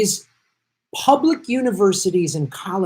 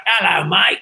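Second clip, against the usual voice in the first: put-on horrible Cockney accent.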